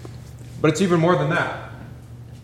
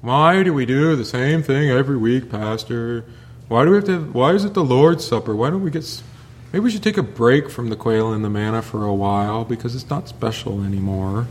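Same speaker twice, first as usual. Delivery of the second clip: lightly voiced complaining member asking the pastor; mock-grumble about the same thing every week; whiny churchgoer. Preacher imitating bored members complaining to the pastor, mildly whiny. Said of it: "we know exactly how these people sounded".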